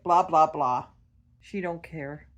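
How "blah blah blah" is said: louder mock blah-blah; punchy nonsense syllables, bird-style; imitating bird babble. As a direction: mimic the bird's dismissive chatter. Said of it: "Like, it's like".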